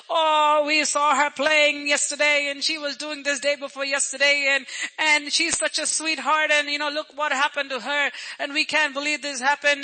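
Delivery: imitating mourners' running lament; lightly acted, run-on fussing over a loss; gossipy mock grief; lamenting relatives. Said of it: "and they all say".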